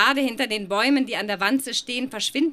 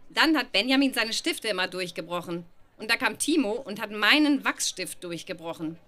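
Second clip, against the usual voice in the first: usual speaking voice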